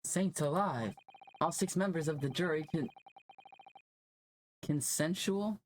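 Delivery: high, breathless and theatrical; dramatic. Acted. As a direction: overdo the amazed lawyer. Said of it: "how dramatic this guy is".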